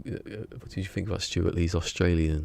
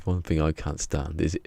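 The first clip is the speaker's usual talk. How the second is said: mock comedian quote; 3 dB louder than usual. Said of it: "He goes".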